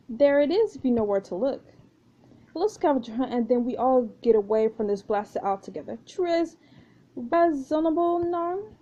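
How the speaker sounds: lightly voiced French pirate proposing a deal; mild French treasure-hunter voice; French pirate, persuasive. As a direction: pitch the plan with a hint of French charm, lifting at the end.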